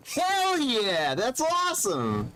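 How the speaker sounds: high, bright hell yeah; excited cheer. Real, not acted. Celebrating a viewer's platinum trophy.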